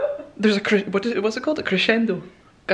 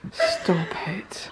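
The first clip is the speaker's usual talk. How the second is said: whispered disbelief; hushed amazement; awed whisper; 5 dB quieter than usual. Real, not acted. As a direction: whisper it, stunned by what you see. Overwhelmed by the room.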